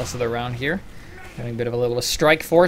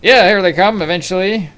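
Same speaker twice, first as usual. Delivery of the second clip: excited call; 7 semitones higher, 10 dB louder than usual. Real, not acted. Caster hypes the push.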